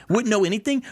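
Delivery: "anything" rising high in disbelief; incredulous echo. Real, not acted. Reviewer echoing the author's claim in disbelief, rising. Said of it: "what an overstatement".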